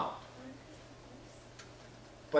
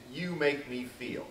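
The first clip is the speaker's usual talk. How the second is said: slow example quote; slower than usual. Shown as a demonstration. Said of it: "most common you messages".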